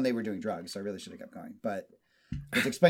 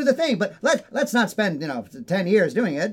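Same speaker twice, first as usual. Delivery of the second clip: high, loud mid-Atlantic exec; stagey old movie actor accent; 7 semitones higher, 6 dB louder than usual. Retold or imitated. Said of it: "I have the mid-Atlantic accent".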